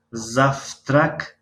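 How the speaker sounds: завтрак said as заФтрак with a rising end. Shown as a demonstration. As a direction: model завтрак, В turned to Ф. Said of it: "Ф талаффуз карда мешавад". (завтрак бо Ф)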